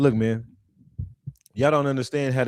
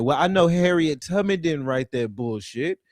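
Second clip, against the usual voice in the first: normal talking voice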